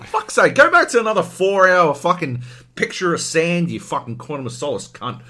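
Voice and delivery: high, loud, fast mock outrage at Daniel; outraged rant. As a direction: scream at the screen in disbelief. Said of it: "you'd be like".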